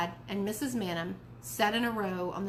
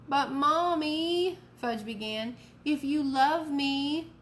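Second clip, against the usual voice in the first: put-on pleading child; 5 semitones higher, 3 dB louder, much slower than usual. A narrator's reading.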